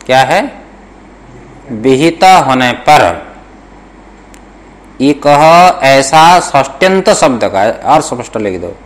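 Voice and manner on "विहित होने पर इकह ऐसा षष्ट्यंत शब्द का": slow, measured dictation to students. Shown as a demonstration. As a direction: spell out each word slowly for note-taking. (धीमे-धीमे श्रुतलेख लिखवाते हुए)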